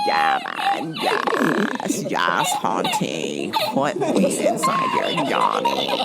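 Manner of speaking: high, hammed-up diva approval; mock sassy cheer. Egging on the prompt writer, mock sassy. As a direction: gush over it sarcastically.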